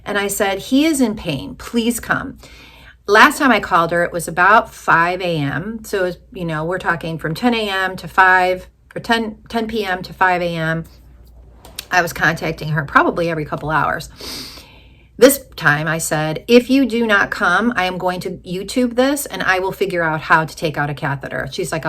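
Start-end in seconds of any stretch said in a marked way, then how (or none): 0.6-2.4 higher, insistent plea; retold urgent plea. Pleading with hospice nurse on phone. 16.5-21.5 retold firm ultimatum. Retelling ultimatum to hospice nurse.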